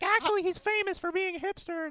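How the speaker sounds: a hint of a teasing fiancee; quoting fiance. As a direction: lightly mimic the fiance teasing. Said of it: "she was like".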